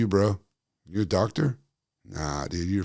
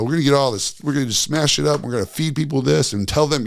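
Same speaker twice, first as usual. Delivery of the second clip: mock company voice; 2 semitones higher, 5 dB louder than usual. Mocking the seed oil companies.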